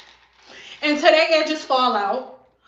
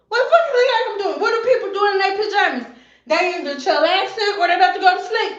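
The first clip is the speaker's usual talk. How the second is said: higher, fast sassy comeback; mock snap; 5 semitones higher, faster than usual. Stylist mocks client's dumb question, fast and higher. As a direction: fire it back, exasperated.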